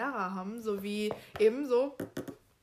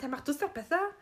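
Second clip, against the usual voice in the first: mildly huffy, a bit higher; lightly acted sulky retort; miffed; 4 semitones higher than usual. Host voices offended Ron snapping back, mildly miffed. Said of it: "ist natürlich gleich eingeschnappt und sagt".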